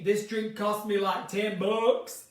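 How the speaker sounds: slow Texan drawl on a quote; lightly imitated Texan accent, drawn out. Quoting a man from Texas, slow imitated Texan accent. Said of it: "my South American accent".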